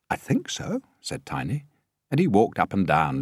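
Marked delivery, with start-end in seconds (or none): 0.1-0.8 put-on much higher small boy; boy's voice. A narrator's reading. Tiny answers.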